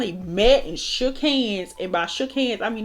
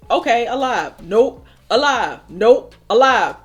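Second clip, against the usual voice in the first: heart voice; 2 semitones higher, 6 dB louder than usual. Retold or imitated. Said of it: "my heart was literally going".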